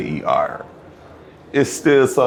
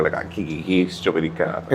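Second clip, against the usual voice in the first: stupid laugh imitation; 2 semitones lower, 5 dB quieter, faster than usual. Shown as a demonstration. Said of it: "I had a stupidity laugh".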